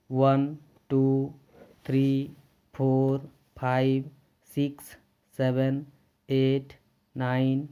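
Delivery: slow, clear teacher counting drill; counting aloud. Shown as a demonstration. Teacher counting one to twenty for students. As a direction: count each number out for the class. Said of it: "Let us start".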